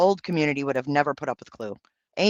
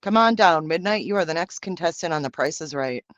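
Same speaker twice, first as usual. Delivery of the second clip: game show host. Pretend. Streamer calling a chatter down like a game show host, booming. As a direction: bellow it like a TV game show announcer.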